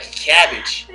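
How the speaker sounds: quick mock New York accent. Shown as a demonstration. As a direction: say it like a New Yorker. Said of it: "you get to New York and you're like".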